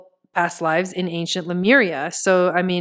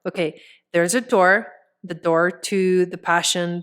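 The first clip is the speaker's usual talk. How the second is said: ordinary talk, nothing marked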